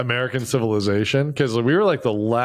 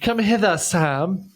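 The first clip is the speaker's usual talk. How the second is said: higher, hammed-up hobbit calling Sam; mock hobbit; 4 semitones higher, much slower than usual. Friend beckons Sam in a higher mock hobbit voice. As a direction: call Sam over in a prissy high voice.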